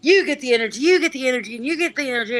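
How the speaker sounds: imitating Oprah giveaway. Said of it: "be Oprah of energy".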